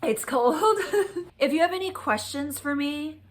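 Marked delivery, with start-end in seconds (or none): 0.6-1.3 short, high-pitched laugh. Real, not acted. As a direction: burst into a high little laugh. Laughs at the cold remark.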